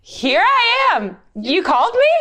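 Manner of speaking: put-on high, slowed childlike voice; sleepy boy answering again; Samuel's line. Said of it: "he said".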